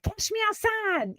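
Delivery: high-pitched imitation of a sassy teen; mock attitude. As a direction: mimic a mouthy girl taking on a crowd. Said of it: "fighting with the audience ... giving them an attitude".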